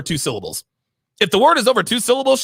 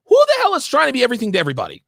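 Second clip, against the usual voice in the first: exasperated shout; 5 semitones higher, much faster than usual. Real, not acted. Ranting at the woman in the clip, exasperated shout. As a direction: fire it off fast, fed up.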